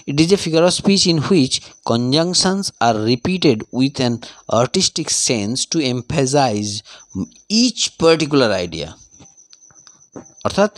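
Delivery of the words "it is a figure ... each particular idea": unhurried classroom dictation; slow dictation. Shown as a demonstration. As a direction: read the definition very slowly, word by word. Dictates the definition.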